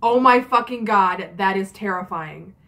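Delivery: mock horror, each word drawn out; slow, emphatic retold outburst; retold all-caps text. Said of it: "just giant caps".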